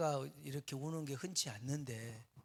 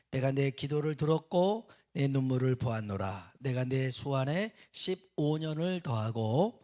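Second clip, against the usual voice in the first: loud, solemn reading of scripture aloud; formal church reading voice; 6 dB louder than usual. Acted. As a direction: read the verse out to the congregation.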